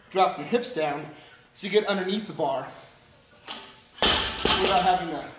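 winded after lifting; breathless from the workout; out of breath. Real, not acted. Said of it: "Now I'm completely out of breath".

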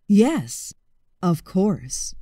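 low, slow, interested crocodile. Acted. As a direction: savour the word like a treat.

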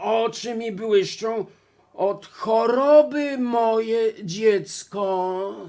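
loud, drawn-out raspy wolf; hoarse wolf as grandma. Acted. Wolf explaining the shining eyes, hoarse fake granny. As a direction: stretch the ending out hoarsely. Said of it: "zachrypiał wilk".

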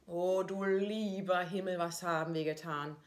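mock horror. Mother hamming up horror at her sensible child. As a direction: wail it like a melodrama.

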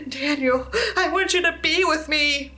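a hint of a woman calling in a dream. Dream woman calls Daniel to her, lightly voiced calling. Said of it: "She was calling my name".

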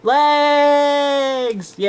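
high, loud cry of joy; overjoyed shout over the legs; excited cheer. Acted. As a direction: cheer as if a wish came true. Toy gets its legs back.

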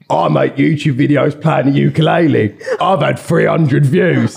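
doing his voice. Retold or imitated. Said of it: "I'm not gonna keep doing the voice".

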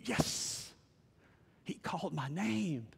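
breath-soft, awed realisation; whispered inner yes; hushed joy. Acted. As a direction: let it out under your breath, amazed. Spirit inside answering God's whisper.

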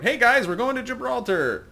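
high, loud, hammed-up cheer; playfully overexcited call to the whole boat; mock-cheery announcement. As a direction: call out to the crew with fake enthusiasm. Calls out cheerily to the crew.

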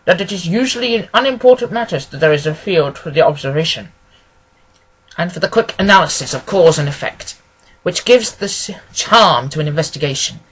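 assured lecture with lively emphasis; lightly voiced analytical detective. Detective expounding his theory of small cases, lightly voiced and assured. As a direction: hold forth like a self-assured sleuth. Holmes holding forth in story.

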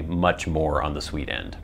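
speaking around pipe stem; words through clenched pipe; talking with pipe in mouth. Real, not acted. Seen 2: Pipe held by hand first, stem in mouth from 1.3s while talking.

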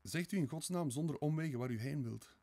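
hoog en luider, wanhopig smekend; wanhopig smeken. A narrator's reading. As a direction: smeek hem ten einde raad. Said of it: "smeekte Sonja in wanhoop". (Sonja smeekt Raskolnikov hoog en wanhopig)

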